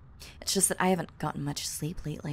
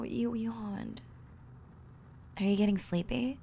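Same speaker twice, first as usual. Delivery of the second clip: ordinary delivery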